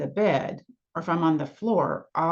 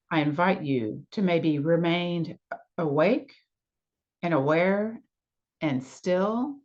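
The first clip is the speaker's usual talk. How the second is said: calm, unhurried guidance with long pauses; guided meditation. Real, not acted. Yoga nidra teacher invites listeners to release effort, guided meditation. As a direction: invite them gently, phrase by phrase. Guiding listeners into the rest practice.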